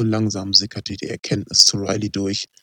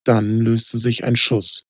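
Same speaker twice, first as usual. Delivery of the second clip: ordinary delivery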